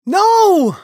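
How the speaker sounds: high, loud cry of protest; frantic high-pitched outburst; desperate plea. A narrator's reading. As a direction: cry out in anguish. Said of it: "pleaded Talon".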